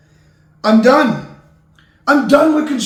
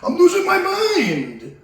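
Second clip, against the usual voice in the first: laughing despair; 9 semitones higher, slower than usual. Acted. Host cracking up mid-rant.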